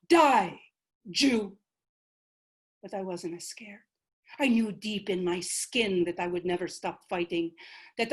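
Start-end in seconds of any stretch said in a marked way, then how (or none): 0.1-1.6 a sudden shouted cry of the soldiers; mock shout. Soldiers shouting at the beheaded ancestor, a brief mock shout. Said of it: "they shouted". 2.8-3.8 soft unvoiced confession; whisper. The ancestor recalling her death, whispered.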